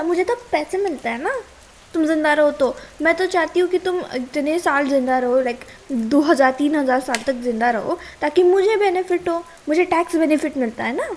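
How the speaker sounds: sarcastic. Acted. Sarcastic rant at smoking partner.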